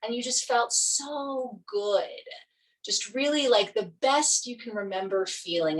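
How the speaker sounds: calm meditation guide with long pauses; guided meditation. Real, not acted. Yoga teacher leading students into Yoga Nidra, guided meditation. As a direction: ease them gently into relaxation, leaving space between phrases.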